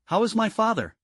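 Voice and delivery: high, anxious question; urgently pleading for news. A narrator's reading. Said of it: "asked anxiously".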